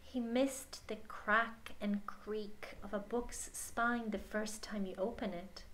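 hushed, slow whisper; storyteller's whisper. Acted. Telling the child how Arlo misses books, hushed whisper. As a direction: breathe it like a secret memory.

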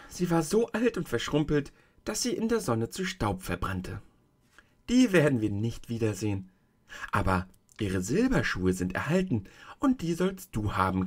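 a hint of a kindly tiny old woman; old witch of the North. The tiny old woman shows Dorothy the feet, gently voiced.

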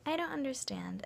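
high-pitched mock confusion; confused friend. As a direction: imitate a friend who is totally lost. Confused friend's reply acted out.

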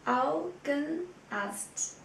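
Augenarzt drawn out very slowly, syllable by syllable; slow model word. Shown as a demonstration. Teacher slowly models Augenarzt for students, very slow. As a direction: stretch Augenarzt out for learners. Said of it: "Der Augenarzt".

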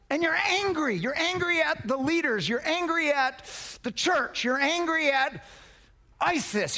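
acted, repetitive protest; mock indignation. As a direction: hammer each complaint with rising pitch. Preacher acts out mounting anger.

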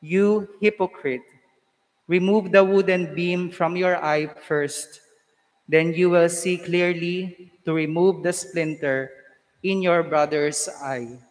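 solemn, measured liturgical reading; Gospel proclamation. Acted.

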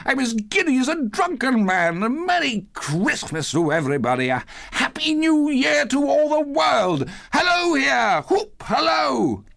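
very high-pitched, rollicking glee; giddy joyful cries. A narrator's reading. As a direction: whoop it out as an overjoyed Scrooge. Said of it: "cried Scrooge".

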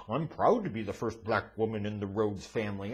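lightly voiced, sarcastic parody of the wife; mocking quote.

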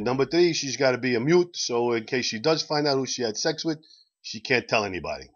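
attempted Italian accent for a joke Pope. The Pope sets terms to the doctor, in an Italian accent. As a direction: put on a light Italian accent. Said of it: "so I'll try to do the Italian accent".

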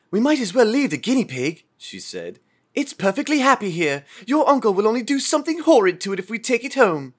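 put-on high, light child's voice; young girl voice. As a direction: voice the children brightly.

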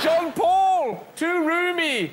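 loud, high camp complaint. Pretend. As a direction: shriek it like a camp diva. Camp voiced character.

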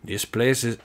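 put-on unsure stab at a Scottish accent; attempted Scottish accent. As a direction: hesitantly try out a Scottish burr. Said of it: "I can't do a Scottish accent".

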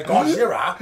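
exaggerated Japanese-accented exclamation; caricatured Japanese accent. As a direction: put on a hammed-up Japanese accent. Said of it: "in a very racist accent say".

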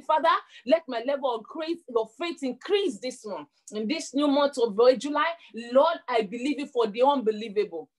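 fervent prayer for the congregation to echo; prayer to repeat. Shown as a demonstration. Preacher leading the church in a prayer to repeat, fervent. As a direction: lead them line by line in prayer. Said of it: "I want you to pray. Say".

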